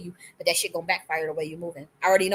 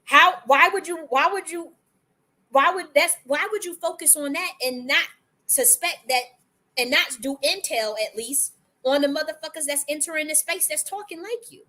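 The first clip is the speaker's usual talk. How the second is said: exasperated questioning; 7 semitones higher than usual. Real, not acted.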